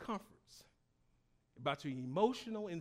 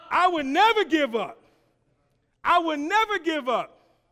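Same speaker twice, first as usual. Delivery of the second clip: high, shouted rallying cry; fired-up preacher rousing the congregation; enthusiastic; 11 semitones higher, 17 dB louder than usual. Shown as a demonstration. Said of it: "Say it with enthusiasm".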